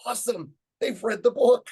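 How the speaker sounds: high, loud, thrilled exclamation; acting out giddy amazement; excited delight. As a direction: burst out, delighted at the kids. Acting out his delighted thought.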